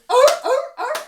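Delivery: loud, high barking oh; high honking sea lion call. Shown as a demonstration. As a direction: bark it out like a seal. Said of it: "and go".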